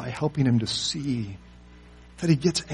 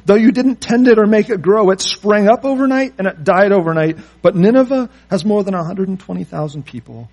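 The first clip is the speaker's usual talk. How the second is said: God's voice; 7 semitones higher, 9 dB louder than usual. Acted. God's statement to Jonah quoted.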